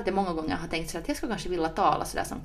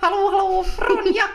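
very high shouted hello; loud shouty voice; 13 semitones higher, 9 dB louder than usual. Pretend. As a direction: call out in an over-the-top parody. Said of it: "talar vi istället så här". (överdrivet gällt hallårop)

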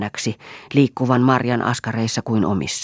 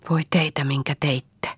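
a hint of whispered wail; moaning whisper; 4 semitones higher than usual. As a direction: breathe it out in grief. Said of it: "vaikeroi Piika".

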